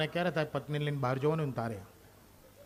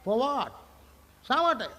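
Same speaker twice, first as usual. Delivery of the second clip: rhetorical question; 7 semitones higher, slower than usual. Real, not acted.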